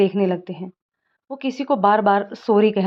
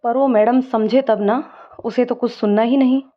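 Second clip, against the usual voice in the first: frowning annoyance. Acted. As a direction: vent about her, fed up. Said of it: "त्योरियां चढ़ाते हुए".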